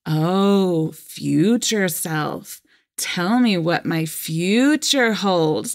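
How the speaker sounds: slow, drawn-out mock sarcasm; snarky sarcastic. Husband mocking his wife's workshop, slow and snarky. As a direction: imitate an eye-rolling husband, lightly. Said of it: "really snarky and sarcastic".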